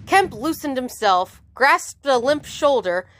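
animated audiobook reading; measured, dramatic storytelling; story narration. A narrator's reading. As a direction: read the action out crisply to listeners. Reads the novel aloud.

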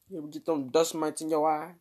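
usual speaking voice

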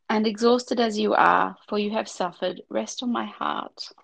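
devotional reading, gentle and measured; heartfelt prayer-book reading; reading aloud. Acted. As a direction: read the book's prayer to your friend.

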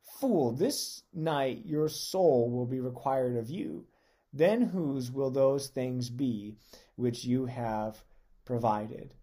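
loud, slow, solemn judgement; stern divine rebuke. Acted. God tells the rich man his soul is required, loud and slow. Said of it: "But God said to him".

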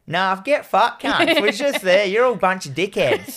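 jeering Aussie cop insult; rude dismissive. Retold or imitated. Mock police dismissing the call.

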